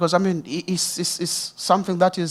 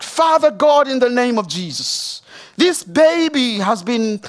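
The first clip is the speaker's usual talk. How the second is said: raised-pitch, emphatic plea to God; retold fervent prayer; 6 semitones higher, 3 dB louder than usual. Pastor retelling his prayer for a sick baby, fervent prayer. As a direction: re-enact calling out earnestly in prayer. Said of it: "And I prayed".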